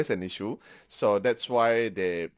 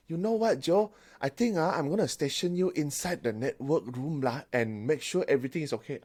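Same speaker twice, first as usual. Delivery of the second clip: higher-pitched put-on boss voice; 6 semitones higher than usual. Boss stationing Joe in the network room, higher put-on voice. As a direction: play the boss handing out an assignment. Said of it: "and then your boss say".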